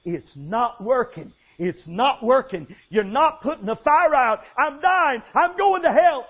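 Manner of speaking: rising to a high, loud desperate cry; a dying man's panic at hell; terrified screaming. Retold or imitated. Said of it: "he started screaming".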